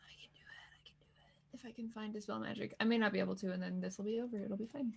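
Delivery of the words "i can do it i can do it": whispering. Real, not acted. Whispered self-encouragement before roll.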